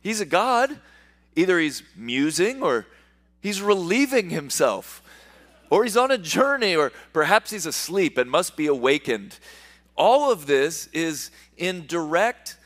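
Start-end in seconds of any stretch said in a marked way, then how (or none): 0.0-9.4 a mild mocking taunt, pitched higher. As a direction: tease them lightly the way Elijah mocks. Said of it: "Elijah mocked them, saying".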